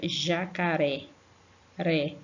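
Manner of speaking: "Jacaré, ré" with a light tapped R; no force on the "ré" of "Jacaré"; "Jacaré", then "ré" alone, tongue just flicking the R; weak R. Shown as a demonstration. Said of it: "não põe força pra falar ré".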